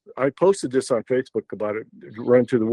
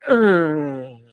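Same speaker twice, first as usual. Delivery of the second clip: long falling groan, louder; imitated animal noise; 4 semitones higher, 5 dB louder than usual. Telling what came suddenly at night, imitated groaning noise. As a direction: imitate a drawn-out noise from the woods.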